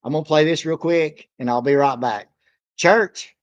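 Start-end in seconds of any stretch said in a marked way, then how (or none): 2.8-3.3 loud, rising call of a name. Real, not acted. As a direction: call his name to get attention. Calling out to the artist.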